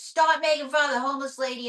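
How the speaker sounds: mild mock yell; retold yell. Retelling the doorman scolding the puppet, mild mock yell. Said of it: "this doorman is yelling and screaming".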